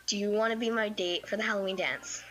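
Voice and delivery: matter-of-fact, evenly pitched question; straightforward. Retold or imitated. Girl asking her crush to the dance, straightforward. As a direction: ask it plainly, without hurrying. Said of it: "just straightforward asked".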